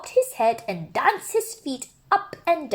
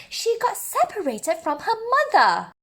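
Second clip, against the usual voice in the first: higher, brighter-pitched zookeeper stopping him firmly; higher zookeeper voice setting a rule; 11 semitones higher than usual. Acted. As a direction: play the zookeeper, a firm higher voice.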